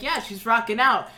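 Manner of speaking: lightly hyped supporter; mock cheering. Quoting own cheer at audition.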